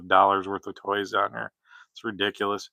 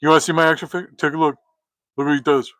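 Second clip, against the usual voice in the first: put-on higher, eager little kid showing off; excited kid voice; 6 semitones higher, much faster than usual. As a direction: show off a toy like a giddy child. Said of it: "I'm the kid that's like".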